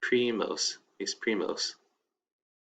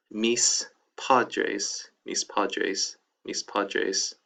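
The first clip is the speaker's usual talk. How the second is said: slow model reading; much slower than usual. Shown as a demonstration. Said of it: "teacher modeling Spanish".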